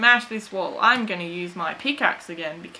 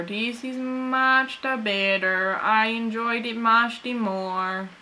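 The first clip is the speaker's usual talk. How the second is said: odd put-on voice. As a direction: play a silly quaint character. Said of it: "Don't ask me why I'm speaking like this".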